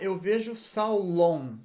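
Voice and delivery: Saulon com o final nasal on; Saulon ending on. Shown as a demonstration. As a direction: termine "Saulon" em on. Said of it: "Tem que terminar com on". (eu vejo Saulon, marcando o on)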